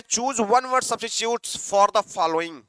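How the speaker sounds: very slow, words drawn out; slow reading. Shown as a demonstration. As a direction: read the instruction slowly to the class. Reading the question slowly.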